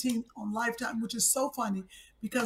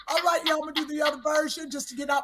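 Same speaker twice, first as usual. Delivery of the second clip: laughing; 3 dB louder than usual. Real, not acted. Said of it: "retelling while laughing".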